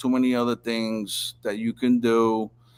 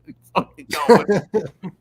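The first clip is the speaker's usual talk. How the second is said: high, louder hammed-up demand; retold tough-guy demand, high and loud; mock angry demand; 10 semitones higher, 7 dB louder than usual. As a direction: bark it out mockingly. Repeating demand with laugh.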